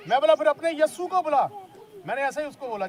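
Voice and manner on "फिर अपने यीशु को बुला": retold challenge. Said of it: "challenge कर दिया।".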